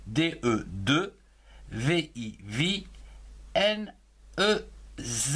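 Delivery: Devinez spelled D E V I N E Z slowly; spelling out. Shown as a demonstration. Teacher spelling Devinez aloud to pupils.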